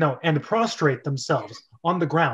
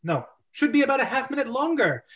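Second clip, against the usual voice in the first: higher, fast mocking villain; gloating Koopa; 8 semitones higher than usual. Koopa mocking Luigi's threat. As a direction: gloat with a laugh.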